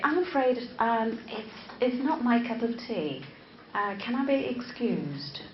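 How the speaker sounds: very polite British English. Acted. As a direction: excuse yourself with British courtesy. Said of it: "They would be very polite".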